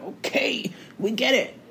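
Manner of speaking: high, soft mock-weary reply; impatient brush-off. Retelling her reply to a persistent suitor, impatient.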